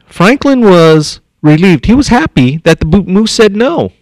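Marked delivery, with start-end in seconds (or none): 0.1-1.9 drawn-out, emphatic Franklin; slowed emphatic rereading; slow stressed read. Shown as a demonstration. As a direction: read it slowly, leaning on Franklin. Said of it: "Franklin's not scoring points with me".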